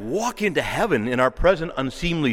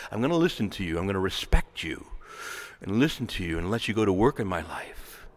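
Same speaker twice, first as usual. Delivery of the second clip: reverent prayer; 4 semitones lower than usual. Retold or imitated. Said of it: "and reverently say".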